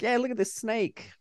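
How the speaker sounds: a hint of stoned wonder; stoner voice. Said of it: "that wouldn't be me".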